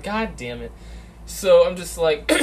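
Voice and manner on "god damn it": muttered curse. Retold or imitated. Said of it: "so I was like".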